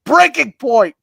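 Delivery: high, loud hammed-up outburst; over-the-top breaking yell. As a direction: shout it like you've snapped. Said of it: "and the yells get louder".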